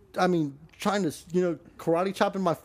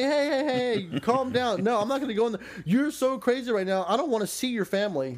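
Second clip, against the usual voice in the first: higher, urgent hey hey hey calm down; mock frantic pleading; 9 semitones higher than usual. Boyfriend pleading with girlfriend in the car, mock frantic. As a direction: plead with her, pitch up and rushing. Him trying to calm her.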